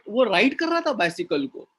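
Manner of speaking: राइड punched within a quick phrase; stress on राइड. Shown as a demonstration. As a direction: hit "राइड", run through the rest quickly. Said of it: "stressing on this word".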